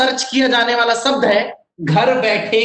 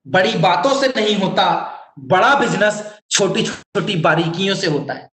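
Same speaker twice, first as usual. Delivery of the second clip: ordinary delivery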